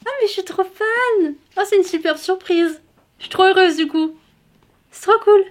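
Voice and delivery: high, loud happy gush; excited. Real, not acted. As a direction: overflow with joy. Découvre une dédicace surprise. (joie débordante, aiguë)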